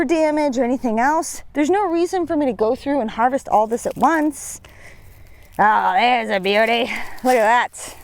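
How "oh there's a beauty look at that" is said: gruff pirate growl, arr style. Real, not acted. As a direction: talk like a pirate admiring treasure. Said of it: "I just sounded like a pirate".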